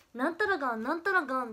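imitating Okayama dialect, がん punched loud; lively mock Okayama dialect. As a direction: quote a friend's Okayama-dialect がん ending. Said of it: "アイポンの岡山弁が謎に移ってきちゃって".

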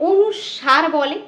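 অনুস্বার said slowly as the common mistaken form; slow demo of the mistaken অনুস্বার; wrong pronunciation. Shown as a demonstration. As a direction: show the wrong way to say অনুস্বার, drawn out. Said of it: "অনেকে এটাকে কি বলে?".

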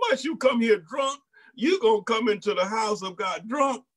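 lightly voiced priest questioning a woman he thinks is drunk; scolding priest. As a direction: scold her like a stern priest. Priest Eli scolding Hannah.

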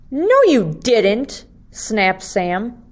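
lively storybook reading for second graders; reading to children. Acted. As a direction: read it like story time for little kids. Teacher reads picture book aloud.

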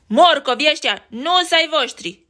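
loud bully yell; bully shriek. Acted. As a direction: screech it at Betty. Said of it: "țipă el".

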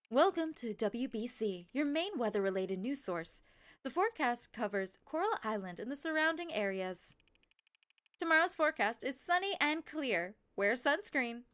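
measured broadcast forecast delivery; lightly put-on weather presenter; weather forecaster voice. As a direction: read it as a TV weather report. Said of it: "I like the weather voice".

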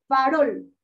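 "farol" weighted on its last syllable, fa-ROL; stress on ROL. Shown as a demonstration. Teacher showing vocal force, "farol" stressed on the final syllable. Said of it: "tiene mayor fuerza de voz".

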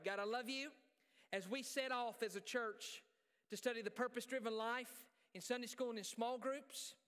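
projected, earnest prayer from the pulpit; public prayer. Real, not acted. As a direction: lead the church in prayer, phrase by phrase. Leads congregation in prayer.

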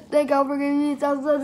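talking through foam; with a sore jaw. Real, not acted. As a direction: mouth coated, slurred words. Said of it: "I can barely talk right now".

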